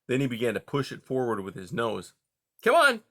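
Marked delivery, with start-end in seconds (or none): 2.6-3.0 high, loud impatient fox cub call; hot call. Acted. Fox cub calls his brother and sister, heated. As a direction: shout at the lazy siblings. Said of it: "he called hotly to his brother and sister".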